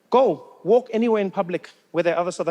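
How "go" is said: ordinary talk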